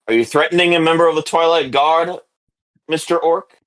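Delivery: a hint of official challenge to an orc; guard challenging someone. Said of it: "and he says".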